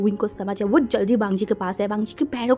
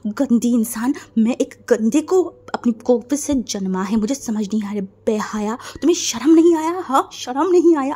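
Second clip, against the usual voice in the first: furious scolding; 5 dB louder than usual. Acted. Mother screaming at her son for his marriage, furious shout. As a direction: tear into your son with disgust. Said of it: "उन्हें इतना गुस्सा आ रहा था".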